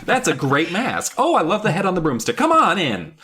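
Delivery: light imitation of a cheery hostess; mock friendly gushing. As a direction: gush like an oblivious friend. Retold unsuspecting friend welcoming her.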